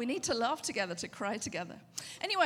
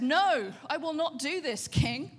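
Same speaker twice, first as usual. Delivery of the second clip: defiant refusal; 5 dB louder, slower than usual. Retold or imitated. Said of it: "Daniel said".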